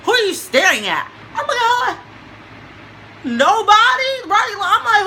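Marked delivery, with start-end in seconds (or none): 0.0-1.1 mock angry who-are-you-staring-at; retold angry challenge. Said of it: "she hot". 1.6-4.1 nervous denial. Retold or imitated. Nervous denial to angry girl.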